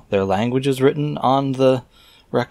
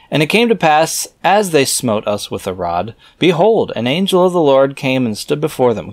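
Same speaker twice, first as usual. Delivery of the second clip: raised, measured reading voice; scripture reading; 4 semitones higher, 3 dB louder than usual. Acted. Reader reciting scripture verses aloud in a solemn reading voice. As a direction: read the old verses out with solemn weight.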